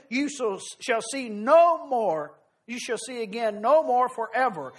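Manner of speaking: measured, solemn Bible reading to the congregation; scripture reading. Acted. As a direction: read the passage with weight, like from the pulpit. Preacher reads scripture aloud.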